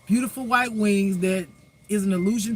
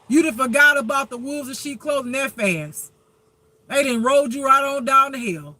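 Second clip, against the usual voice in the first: God scolding; 4 semitones higher, 4 dB louder than usual. Retold or imitated. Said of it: "God be looking at them like".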